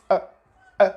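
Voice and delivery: "uh" cut off sharply in the throat; short "uh" with a catch in the throat; glottal stop. Shown as a demonstration. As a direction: demonstrate a glottal T as a stopped "uh". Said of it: "The glottal T is this".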